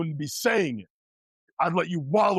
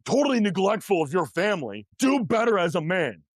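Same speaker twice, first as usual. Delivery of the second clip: stern callout; 5 semitones higher than usual. Retold or imitated. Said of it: "sit him down and be like".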